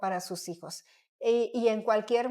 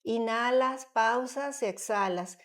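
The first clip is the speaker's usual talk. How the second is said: slow demo; slower than usual. Shown as a demonstration. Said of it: "La respiración tiene que ser".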